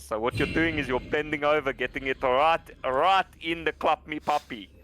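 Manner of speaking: put-on South African accent, playful; hammed-up South African voice. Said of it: "I don't do the South African very much".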